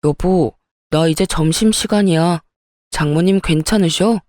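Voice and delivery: hint of a husband checking in; husband on phone. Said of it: "남편 목소리를 들으니".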